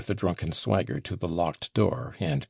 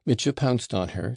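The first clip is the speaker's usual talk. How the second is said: ordinary delivery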